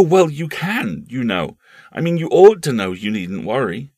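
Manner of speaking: put-on a boy pressing his point; insisting boy.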